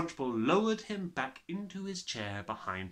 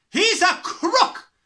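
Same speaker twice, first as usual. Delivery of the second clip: very high, loud furious shout; 14 dB louder, slower than usual. Acted. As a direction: explode in fury. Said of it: "the Trunchbull shouted".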